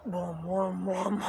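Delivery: imitated echoing booms; reverberating booms. Shown as a demonstration. Woman imitating energy bouncing round the house, reverberating.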